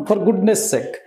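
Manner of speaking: slow, careful English example; teacher dictating slowly. Shown as a demonstration. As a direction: spell it out slowly for the class. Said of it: "লক্ষ্য করো goodness শেষে S আছে".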